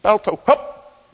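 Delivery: very high, loud commands into the storm; urgent musher's yell. Retold or imitated. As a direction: yell over the wind to get the dog up. Musher orders the dog on.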